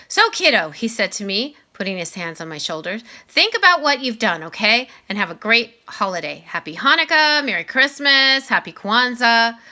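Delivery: a principal gently laying down the rules; Mister Tushman. Acted. Voices Mr. Tushman.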